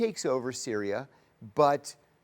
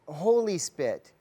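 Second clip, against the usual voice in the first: slow, louder mock reverence; hammed-up blissful believer; mocking her holy-spit devotion; mock devotee; 4 semitones higher, 5 dB louder, slower than usual. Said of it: "she says".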